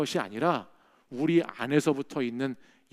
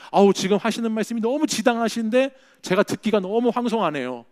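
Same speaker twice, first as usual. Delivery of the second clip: higher, overly courteous mock reply in a quarrel; a hint of sugary sarcasm; polite comeback; 6 semitones higher, 5 dB louder than usual. Shown as a demonstration. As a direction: fight back with exaggerated politeness. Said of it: "이런 식으로 싸울 수 있어야 된다".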